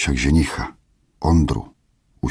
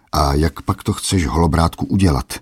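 snide questioning. Acted. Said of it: "vyzvídal jízlivě".

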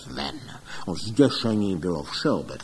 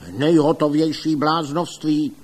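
louder, contemptuous outcry; shouting scorn; 5 semitones higher, 5 dB louder than usual. A narrator's reading. Rival doctor shouting down the revival, loud scorn. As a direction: yell it as utter nonsense. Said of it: "křičel pan doktor Link".

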